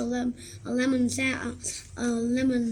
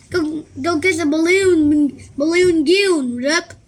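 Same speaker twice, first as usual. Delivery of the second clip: loud, higher playful taunt; 5 semitones higher, 9 dB louder than usual. Acted. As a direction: tease him back hard. Nicky taunting Rip.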